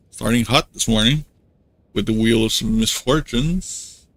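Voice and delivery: talking with a clothespin on; clothespin on mouth. Real, not acted. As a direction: mouth held open by a pin. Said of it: "can't close my mouth properly".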